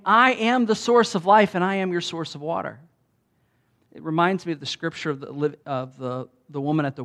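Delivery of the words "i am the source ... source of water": louder, higher proclaiming of I am; emphatic declaration. Retold or imitated. Jesus outdoing the brothers' hopes, emphatic and loud. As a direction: announce it boldly. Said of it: "by saying".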